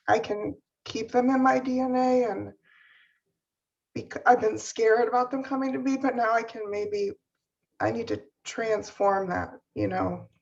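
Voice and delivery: choked up, catching breath between words; fighting back tears, breath catching; catching breath midword. Real, not acted. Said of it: "Sorry, I, I can't talk".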